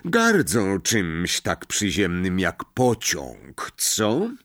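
menacing mock gentleness; almost gentle Snape. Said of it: "zaczął niemal łagodnie".

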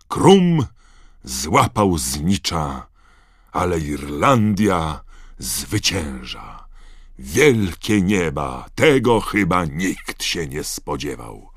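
slow, stretched stadium announcement; amazed announcer. Acted. Commentator stunned by the sudden match end, announcing it slowly.

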